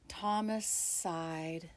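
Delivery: slow, sighing words. Acted. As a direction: let it out on a sigh.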